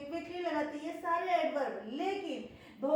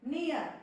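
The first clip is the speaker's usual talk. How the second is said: "नियर" said in one go, then a pause; "नियर" in a single push, stopping after it; one-beat word. Shown as a demonstration. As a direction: say "नियर" as one syllable and stop. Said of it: "पास में रुक गई".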